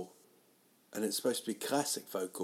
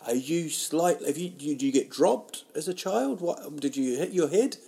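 higher, louder, incredulous mock question; mocking disbelief; 6 semitones higher, 5 dB louder than usual. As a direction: ask it like he's an idiot, pitch up. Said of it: "that was his reaction".

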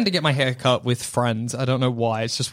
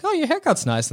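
mock compliment; 12 semitones higher than usual. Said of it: "I'm like".

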